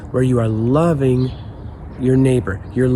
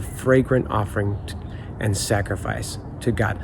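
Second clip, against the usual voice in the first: scripture reading. Acted. Reads Bible verse aloud.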